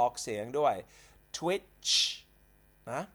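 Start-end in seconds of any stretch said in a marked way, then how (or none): 1.4-1.9 Twitch said higher, with a clear final ch; model pronunciation. Shown as a demonstration. Teacher asks everyone to repeat Twitch, model pronunciation. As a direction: lift Twitch and land the ch. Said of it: "ผมอยากจะให้ทุกคนออกเสียงด้วย".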